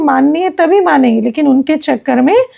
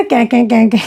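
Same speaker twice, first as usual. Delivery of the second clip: crow caw imitation; 2 semitones lower than usual. Teacher contrasts crow and cuckoo with a mock crow caw. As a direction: mimic a crow's harsh caw, kai kai. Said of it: "कौवे और कोयल में क्या फ़र्क है?".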